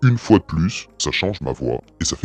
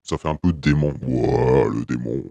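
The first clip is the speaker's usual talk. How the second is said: hellish demon effect. Shown as a demonstration. Host testing the next mode, demon voice effect. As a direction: voice changer set to hell. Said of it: "là, on a la voix de l'enfer".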